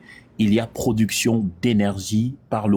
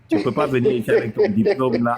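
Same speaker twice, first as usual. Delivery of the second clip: laughing taunt. Real, not acted.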